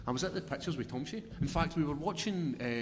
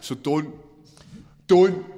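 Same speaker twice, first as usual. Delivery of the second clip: rising insistence; 4 semitones higher, 14 dB louder, much slower than usual. Real, not acted. Insisting, voice climbing.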